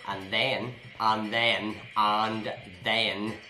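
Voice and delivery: AND THEN over and over, stretched out; drawn-out repetition. Pretend. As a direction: keep hammering AND THEN, teasingly. Teasing repeated phrase until child objects.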